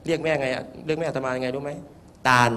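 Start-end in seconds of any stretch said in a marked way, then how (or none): 2.0-2.5 put-on child calling out. Small child calls out mother's name.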